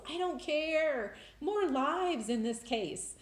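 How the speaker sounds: high, loud, exultant declaring; excited. Real, not acted. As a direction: proclaim it loudly, carried away with joy. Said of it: "that was exciting".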